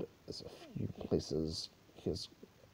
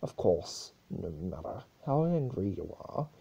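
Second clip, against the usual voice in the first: higher needling chaos-spirit voice; Discord, higher voiced; 3 semitones higher, 3 dB louder than usual. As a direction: twist the knife with mock sympathy. Discord mocks the rumours.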